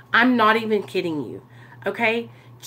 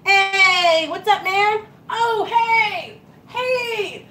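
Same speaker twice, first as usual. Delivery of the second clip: bright, much higher, bubbly hellos; cheery greetings; 9 semitones higher, 3 dB louder, much slower than usual. Retold or imitated. Vlogger greeting coworkers at work, high and bubbly. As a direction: greet everyone like it's the best day ever. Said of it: "I'm like".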